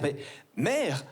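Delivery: lightly voiced archaic little aristocrat; a hint of a precious courtly child; pompous child. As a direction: ham up an old-fashioned noble boy. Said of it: "demander à ma mère".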